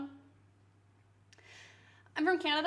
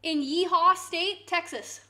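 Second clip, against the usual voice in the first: mock drawl; 4 semitones higher, 8 dB louder, slower than usual. Mock-naming Texas as Yeehaw State.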